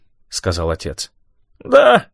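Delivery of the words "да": loud, near-hysterical laughing yes. A narrator's reading. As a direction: burst out laughing. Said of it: "громко, почти истерически захохотал".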